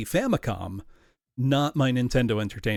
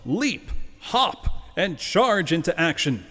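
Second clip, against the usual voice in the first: booming trailer narrator, louder and higher; movie announcer voice; 6 semitones higher, 4 dB louder, slower than usual. Acted. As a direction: sell it like a big movie trailer. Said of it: "I will use my best movie announcer voice here".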